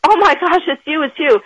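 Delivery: a fan's breathless "oh my gosh"; mock thrilled recognition; excited fan. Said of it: "she got all excited".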